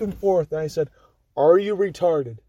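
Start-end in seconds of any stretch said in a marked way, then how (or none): 1.3-2.4 laughing taunt. Retold or imitated.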